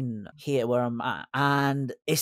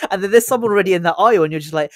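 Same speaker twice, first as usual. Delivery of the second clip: laughing; 3 semitones higher, 8 dB louder, much faster than usual. Retold or imitated. Awkward aisle dodge, laughing.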